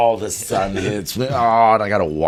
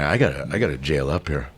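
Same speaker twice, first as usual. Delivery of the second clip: scared inner voice; 6 semitones lower, 6 dB quieter than usual. Retold or imitated.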